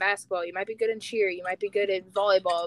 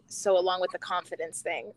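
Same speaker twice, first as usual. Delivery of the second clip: laughing. Retold or imitated. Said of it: "you said".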